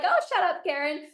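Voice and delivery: high-pitched mock brush-off; lightly exasperated retort; mock annoyed. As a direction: imitate someone fed up, starting high. Mimics people dismissing a Karen.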